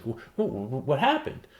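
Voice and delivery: high, loud tearful wail; high-pitched teary child pleading; crying child. Retold or imitated. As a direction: blurt it out like a sobbing kid to his mom. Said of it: "I just start bursting out in tears and I'm crying".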